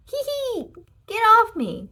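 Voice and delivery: high giggle breaking into a loud plea; laugh, then push the pig away; giggling protest. A narrator's reading. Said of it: "said the man".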